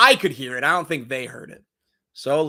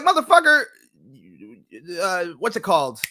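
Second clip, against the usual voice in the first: imagined angry retort. Retold or imitated. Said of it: "I wanted to be like".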